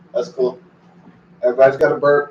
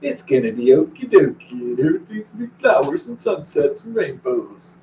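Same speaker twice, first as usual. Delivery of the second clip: mock sugary reassurance. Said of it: "They wanna know, like".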